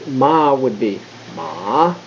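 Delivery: ma slow, dipping down then up; third tone dip. Shown as a demonstration. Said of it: "you'd go down and then go up".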